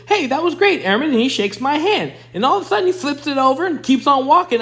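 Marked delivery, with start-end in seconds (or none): 0.1-1.1 higher, hearty imitation of the colonel; a hint of a booming officer congratulating a young airman; colonel's praise. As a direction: lightly play the upbeat commander. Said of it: "and he goes".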